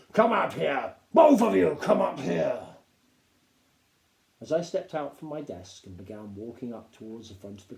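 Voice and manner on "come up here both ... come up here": sharp command. A narrator's reading. Captain summons boys.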